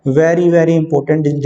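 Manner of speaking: "Very, very important" said very slowly; slow emphatic. Real, not acted. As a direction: drag each word out to stress its weight. (बहुत धीरे, ज़ोर देकर "Very, very important")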